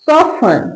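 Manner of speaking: falling model soften, T left out; silent T in soften. Shown as a demonstration. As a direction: soften said as "soff-un", no T. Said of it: "टी का sound नहीं आएगा".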